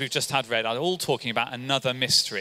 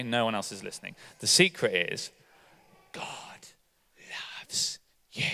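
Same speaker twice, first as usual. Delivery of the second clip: whispered secret, softer and lower; 6 semitones lower, 5 dB quieter than usual. Pretend. Preacher whispers the secret to two child volunteers. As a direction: hush it like a secret only they hear. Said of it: "nobody else is listening as I tell you the secret".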